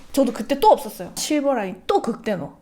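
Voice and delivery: usual speaking voice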